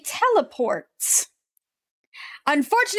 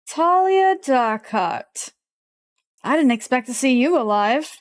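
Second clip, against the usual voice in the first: villain recognizing a foe. Acted. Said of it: "and he pauses".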